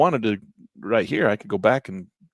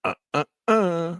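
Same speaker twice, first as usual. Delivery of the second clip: halting, slow raised voice that stammers on each uh; Robert Kennedy impression; 5 semitones higher, slower than usual. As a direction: stammer it out slowly like a shaky old politician. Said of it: "old Robert Kennedy got in there and said".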